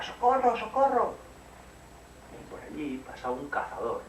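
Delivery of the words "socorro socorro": high, loud cry for help. Acted. Caperucita screams for help as the wolf attacks. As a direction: call out for rescue. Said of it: "Caperucita gritaba".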